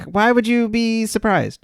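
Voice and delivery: high, drawn-out disbelief; high-pitched, slow, scoffing question; mock incredulity. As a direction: stretch it out in mock amazement. Mocking the character's surprise.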